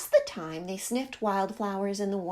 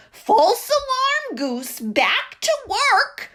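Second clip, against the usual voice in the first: brisk order; 11 semitones higher, 7 dB louder, slower than usual. Acted. Duck ordering, brusque.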